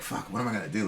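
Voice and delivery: low, soft, hopeless mutter to himself; lonely in a bare first apartment, asking himself softly; quiet despair. Retold or imitated. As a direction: quietly wonder what now, alone in an empty flat. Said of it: "but I was like".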